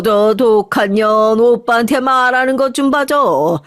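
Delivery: an old grandmother scolding, lightly voiced. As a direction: nag like a grumpy grandma clutching her grudge. (손녀를 꾸짖는 할머니, 살짝 흉내 낸 목소리)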